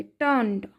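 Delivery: "टर्न्ड" with the R barely sounded; light R. Shown as a demonstration. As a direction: say "टर्न्ड" as tond, falling. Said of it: "आर का यहाँ पे lightly sound है".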